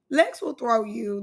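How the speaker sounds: ordinary delivery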